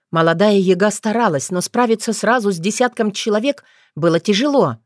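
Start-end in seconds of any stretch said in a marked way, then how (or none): none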